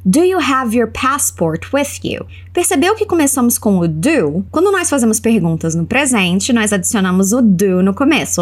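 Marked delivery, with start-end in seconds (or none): 0.1-2.3 slow teaching read. Shown as a demonstration. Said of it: "Ela continua fazendo uma pergunta".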